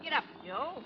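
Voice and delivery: slow loud drive-on yell to the team; shouting at horses. Acted. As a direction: bellows the horses into motion.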